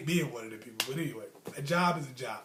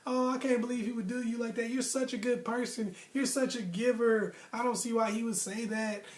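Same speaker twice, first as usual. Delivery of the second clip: sympathetic coworkers; 4 semitones higher than usual. Retold or imitated. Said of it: "And people were like".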